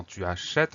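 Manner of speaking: "achètes" with an open "eh", a-shett; open E sound. Shown as a demonstration. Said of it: "on va prononcer le son avec le son E". (« achètes » avec un è ouvert, a-chète)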